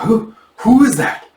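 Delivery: high, slow, stammered shock; startled. Acted. Bandit seeing masked attacker, high startled question. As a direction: stammer it out in alarm.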